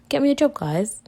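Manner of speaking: high, cheeky plea to the listeners; playful demand. Acted. Teasing her podcast listeners to find her work, high and playful. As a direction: toss it up high like a teasing ask.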